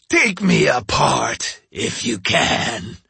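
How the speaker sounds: slow taunting demon; mocking ogre. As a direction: dare him, slow and sneering. Oni taunting, same voice.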